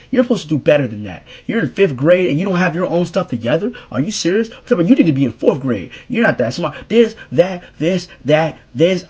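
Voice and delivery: officer chewing out a kid, retold; mock scolding. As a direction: rattle off a mild imitated telling-off. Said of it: "frying me".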